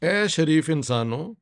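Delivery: measured opening of a recited Urdu nazm; poem recitation. Acted. Speaker opens Sahir's anti-war nazm to viewers, reciting. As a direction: recite it as a poetic address. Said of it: "पढ़ के सुनाना चाहता हूँ".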